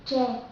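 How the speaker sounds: loose Vietnamese TR, written "day" here; relaxed TR. Shown as a demonstration. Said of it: "the word day is much more relaxed".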